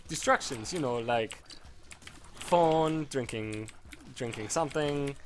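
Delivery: rough attempt at a Spanish-like accent; imitated foreign accent. Interviewer clarifying what she meant, imitated vaguely Spanish accent. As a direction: explain patiently in a poorly imitated Spanish-like accent. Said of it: "I'll try to replicate the accent".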